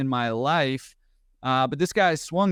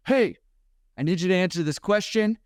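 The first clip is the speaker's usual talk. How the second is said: higher-pitched, mildly forceful retold yell; mock yell; 6 semitones higher than usual. Big paramedic demanding answers from an uncooperative patient, retold mild yell. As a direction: imitate yelling right in someone's face, held back in volume. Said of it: "he just yells at him right in his face".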